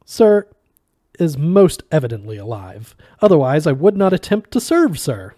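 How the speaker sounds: tight-lipped sarcasm. Acted. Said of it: "tight-lipped and sarcastic little waiter".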